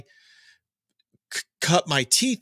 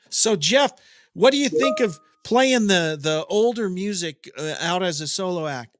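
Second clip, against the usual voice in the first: Eddie Trunk voice; 4 semitones higher than usual. Retold or imitated. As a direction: play the keen radio host asking Jeff. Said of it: "I'm Eddie right now".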